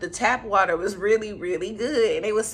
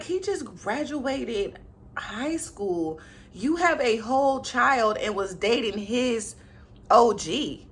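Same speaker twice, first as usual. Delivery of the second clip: disapproving; slower than usual. Retold or imitated. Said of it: "I'm like".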